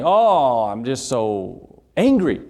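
drawn-out mock exasperation; lightly acted cartoon grump, slow on the complaint; Lucy. Preacher retelling a Peanuts cartoon to the congregation, mock angry. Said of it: "old Lucy was saying".

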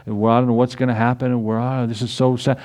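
mock-helpless, droopy grumbling; mock moping. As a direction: imitate a glum worrier with a pouting lip. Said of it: "dragging their bottom lip".

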